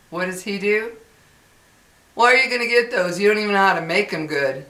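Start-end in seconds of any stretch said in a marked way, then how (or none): 2.1-4.7 quick, raised-voice mock scolding; loud, rude scolding. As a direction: retell his rude outburst, loud and fast. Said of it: "you said that loud enough for everybody".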